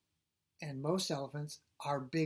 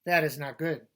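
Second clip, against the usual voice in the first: indignant; 11 dB louder than usual. Acted. Gerald indignant, read aloud.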